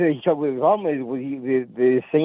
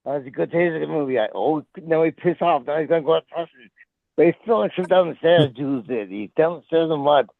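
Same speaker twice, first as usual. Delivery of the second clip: mock Australian wildlife running commentary; lightly voiced Australian croc hunter; Steve Irwin. Reporting on the tased creature, lightly Australian commentary. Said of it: "Oh, you mean Steve".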